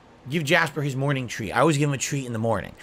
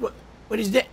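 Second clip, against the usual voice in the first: higher, haughty cat turning up its nose; snooty cat voice; 6 semitones higher than usual. Retold or imitated. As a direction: play the pampered cat disgusted by chicken. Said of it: "He's like".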